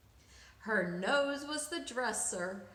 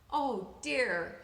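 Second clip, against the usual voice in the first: sad sigh; 3 dB louder than usual. Acted. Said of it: "the old woman said sadly".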